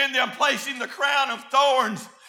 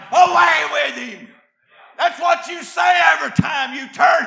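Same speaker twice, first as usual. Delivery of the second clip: fiery preaching. Acted. Preacher thunders to the church at full force. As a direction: preach it hard to the congregation.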